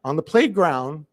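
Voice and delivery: high, breezy brush-off; principal's dismissive voice. Retold or imitated. Principal brushing off the mother, high and breezy. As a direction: wave the worried mother away lightly. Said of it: "She goes".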